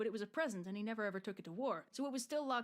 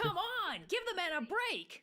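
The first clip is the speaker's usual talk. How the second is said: mock exasperation; 9 semitones higher, slower than usual. Host protests the story continuing.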